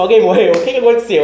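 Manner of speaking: acted worried grandmother, pitch and volume climbing; alarmed grandmother. Grandmother fearing someone has died, mock alarm. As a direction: imitate a grandmother starting to panic. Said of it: "Ela já começou a chorar".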